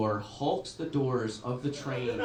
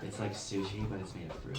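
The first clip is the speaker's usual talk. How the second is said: mock chirpy white girl on the phone; lightly voiced brunch chatter, mocking; valley girl phone voice; 4 semitones lower, 5 dB quieter than usual. Comic mocking a quiet commuter on her phone, chirpy.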